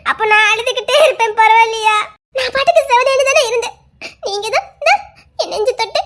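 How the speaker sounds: teary, choked pleading; laughing through tears. Acted. Woman pleading with the man to stay, through tears. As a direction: plead while half crying.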